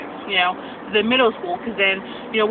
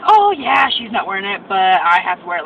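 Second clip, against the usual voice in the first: tattletale whine; 6 dB louder than usual. Retold or imitated. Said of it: "sit here and be like".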